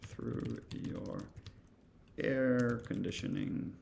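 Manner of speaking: drawn out, with pauses between phrases; slow, halting readout. Shown as a demonstration. Presenter voicing a scary line for the computer to say, slow and halting. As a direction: slowly, piece by piece, trailing off softly. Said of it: "like, weird and scary".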